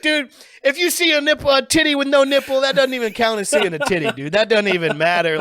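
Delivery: high-pitched, heated comic rant; worked-up mock outrage, pitch way up; retold arguing. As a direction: argue it like an indignant buddy. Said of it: "we're arguing".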